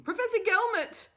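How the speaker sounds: loud, high call after him; calling out again. A narrator's reading. Doctor Fugg calls out to the professor a second time, loud. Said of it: "she called out to him".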